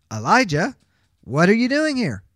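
God calling out in a full strong voice. Retold or imitated. God questioning Elijah at the cave, in a full strong voice. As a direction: call his name out firmly, full-voiced. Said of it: "He spoke with his full voice".

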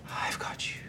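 breathy, ghostly whisper; spooky voice. Acted. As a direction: hiss it like a phantom at the ear. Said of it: "quite a spooky voice goes".

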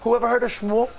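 the crowd can't believe the name; shocked disbelief. Retold or imitated. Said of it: "And the room gasped".

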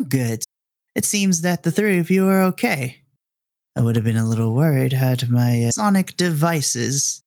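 lightly voiced scheming scientist; measured, deliberate villain with weighted pauses; mysterious radio villain. Unseen captor checking on the three, measured and calculating.

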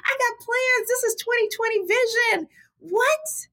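indignant, high exasperated squeal; irritated disbelief. Retold or imitated. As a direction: squeak out the protest, hammed-up annoyance. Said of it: "I was very irritated".

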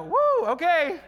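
high laughing woo; mock taken aback. Listener reacting to angry denial, laughing. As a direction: back off amused. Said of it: "and you go".

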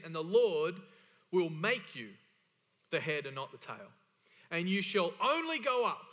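loud, rising stress on "only go up"; emphatic scripture reading. Acted. Preacher reads promise to congregation, emphatically. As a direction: drive the verse up to "only go up". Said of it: "That's emphatic language".

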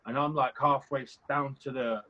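ordinary delivery

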